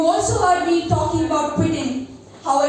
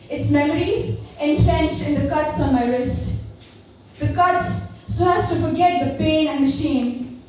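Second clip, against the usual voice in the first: poem recitation. Acted. Recites her poem Metanoia.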